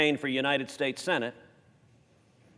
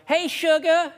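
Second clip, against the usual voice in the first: high, sing-song "Hey, sugar" with drawn-out second syllable; sweet Southern phone greeting, stretched out; imitating Kay's greeting; 13 semitones higher, 3 dB louder, slower than usual. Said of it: "she could drag that second syllable out".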